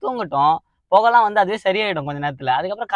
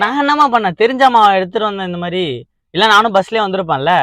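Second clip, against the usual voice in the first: loud, high-pitched self-defence; indignant protest; 4 semitones higher, 5 dB louder than usual. Acted. Son defending himself to his angry mother, protesting. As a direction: plead innocence, aggrieved.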